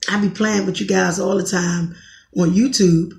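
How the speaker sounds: normal talking voice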